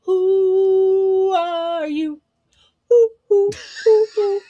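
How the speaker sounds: high, loud, slow laughing question. Real, not acted. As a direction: ask through giggles. Laughing mock hooting question.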